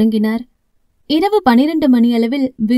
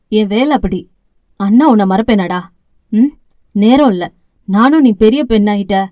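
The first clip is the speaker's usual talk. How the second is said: a touch lower, earnest explaining; older brother justifying himself, slightly lower; lightly voiced brother; 3 semitones lower than usual. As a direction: explain yourself to your sister sincerely.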